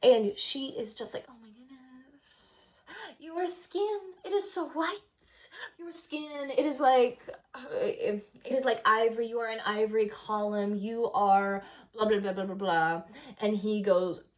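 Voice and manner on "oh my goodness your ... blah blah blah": swooning. Retold or imitated. Salome swoons over John.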